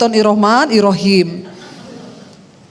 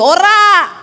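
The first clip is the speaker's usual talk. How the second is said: high, louder one-word denial; sharp rising retort; 7 semitones higher, 5 dB louder than usual. Retold or imitated. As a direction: fire back a rising no. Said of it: "wife's retort in quarrel". (bantahan tinggi dan keras)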